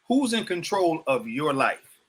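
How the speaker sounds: slow question, leaning on "your"; stress on YOUR. Real, not acted. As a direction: put the emphasis on "your" before "life". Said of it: "I'm putting the emphasis on yours".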